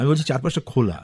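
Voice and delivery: খোলা given weight at the end of the phrase, falling; mild emphasis on খোলা; stress on খোলা. Shown as a demonstration. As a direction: land firmly on the word খোলা. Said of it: "এই খোলা শব্দটার উপর আমি জোর দিচ্ছি".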